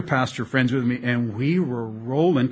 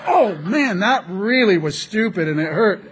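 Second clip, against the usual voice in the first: mock pained regret; 5 semitones higher, 4 dB louder than usual. Acts guy hitting a wall.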